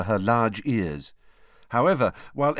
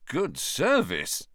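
impressed; 3 semitones higher, much slower than usual. A narrator's reading. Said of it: "Ron said in an impressed voice".

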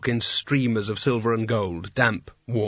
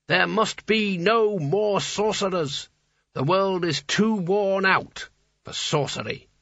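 raised, grand pronouncing hat voice; talking hat; 7 semitones higher than usual. A narrator's reading. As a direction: declaim like ancient authority. Hat proclaims its authority.

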